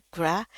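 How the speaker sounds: "Gra" with a wide English æ. Shown as a demonstration. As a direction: say "Gra" with jaw open wide. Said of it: "A ini nggak ada di bahasa Indonesia". ("Gra" dengan bunyi æ lebar)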